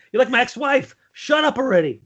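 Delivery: high, nagging ex-wife voice. Pretend. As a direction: nag like a fed-up ex-wife. Mock-scolding co-host as ex-wife.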